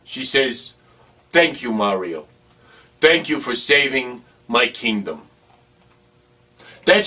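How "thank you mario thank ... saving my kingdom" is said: lower, gentle lady. Retold or imitated. Princess thanks Mario.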